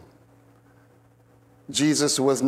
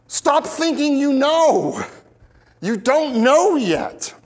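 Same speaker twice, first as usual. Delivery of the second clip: firm not scolding; 10 semitones higher, slower than usual. Retold or imitated. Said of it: "He's not scolding them".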